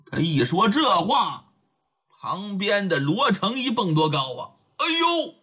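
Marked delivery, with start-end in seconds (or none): 4.8-5.4 high, delighted exclamation; a young man's sudden joyful cry; surprised whoop. Acted. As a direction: leap up with glee. Luo Cheng jumps up in delight.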